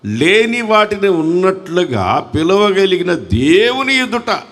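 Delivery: slow, drawn-out preaching. Real, not acted. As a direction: stretch each phrase out for the congregation to follow.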